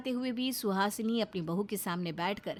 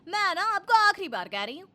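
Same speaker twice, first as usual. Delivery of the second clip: angry warning; 7 semitones higher, 4 dB louder than usual. Acted. Wife warns husband last time.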